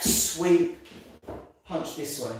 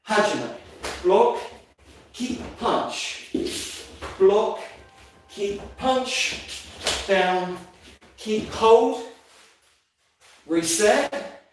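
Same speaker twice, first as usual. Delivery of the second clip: shouted commands; 3 semitones higher, much slower than usual. Real, not acted. Instructor calling kata moves.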